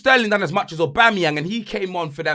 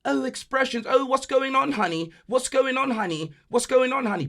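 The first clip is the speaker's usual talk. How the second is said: higher, softer, sugary mock voice; mock sweet girlfriend; 4 semitones higher, 7 dB quieter than usual. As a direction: tease her cooing down the phone. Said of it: "That's what she thinks".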